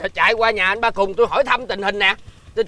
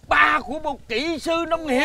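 slow, higher, tearfully proud boast; carried-away pride; 4 semitones higher, slower than usual. Acted. Father boasts of his future engineer child, carried away. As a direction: savour the title, head in the clouds. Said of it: "làm ơn đáp xuống giùm tôi".

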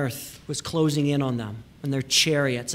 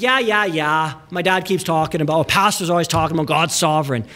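put-on dismissive teen. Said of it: "isn't just like".

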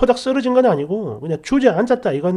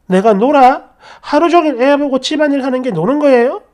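rising, louder indignant comeback; indignant retort; 4 semitones higher, 5 dB louder than usual. Retold or imitated. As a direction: fire it back in disbelief. 화가 나서 남편에게 따짐. (화가 나서 따지듯이)

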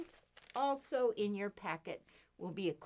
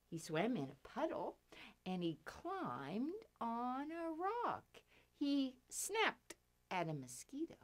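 finger play rhyme; 2 semitones higher than usual. Pretend. Reciting children's finger rhyme.

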